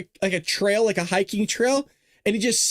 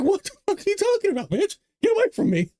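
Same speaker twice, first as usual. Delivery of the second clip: mock angry yell; 11 semitones higher, faster than usual. Hiker yelling at golem.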